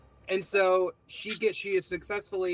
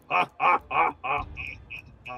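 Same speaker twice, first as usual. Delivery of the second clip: imitated creature noise. Pumpkin's sound at blackout, imitated creature "ah". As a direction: imitate a monster's sound in separate bursts. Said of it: "you hear a sound goes".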